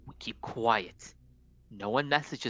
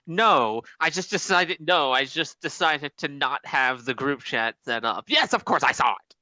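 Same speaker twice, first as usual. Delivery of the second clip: mildly heated, sarcastic retort; irate; 4 dB louder than usual. Acted. A touch of exasperated anger. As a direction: Ophelia irately answering a question about the group chat, mildly angry. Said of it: "i-, i-, irate".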